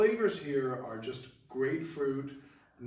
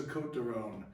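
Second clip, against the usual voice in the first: Côtes du Rhône in a French accent. Shown as a demonstration. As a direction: roll the name out the French way, lightly. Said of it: "I said that with my best French accent".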